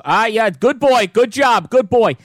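put-on slow, dismissive good boy; imitating Mad Dog Russo. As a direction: brush them off like Russo. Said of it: "Mad Dog Chris Russo would always go".

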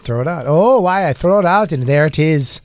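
mock Irish lilt with some Jamaican; playful Irish-Jamaican blend; Irish-Jamaican accent. Shown as a demonstration. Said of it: "it's Irish and it's a little".

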